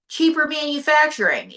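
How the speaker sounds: mock disbelief. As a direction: repeat it as if you can't believe it. Interviewer echoes incredulously.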